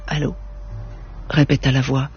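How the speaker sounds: measured audiobook reading voice; story narration. A narrator's reading. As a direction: read the novel aloud, steady and composed. Reads a novel aloud.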